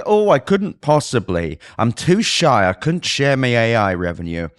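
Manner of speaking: coy, put-on bashfulness; lightly mocking bashful voice; mock shy. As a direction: pretend to be too modest to share. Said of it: "are they shy?".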